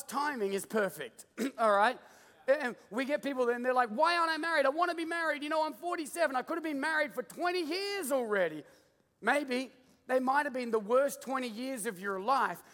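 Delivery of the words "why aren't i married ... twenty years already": high-pitched mock griping; impatient complaint. Preacher voices singles desperate to be married, high mock complaint. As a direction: imitate someone pleading impatiently, voice raised in pitch.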